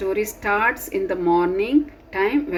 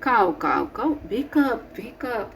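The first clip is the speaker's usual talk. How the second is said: crow call; 3 semitones higher than usual. Acted. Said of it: "says the crow".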